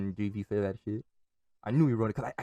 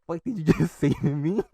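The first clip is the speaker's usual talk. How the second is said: mock outrage; 5 semitones higher, 5 dB louder than usual. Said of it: "And it's like".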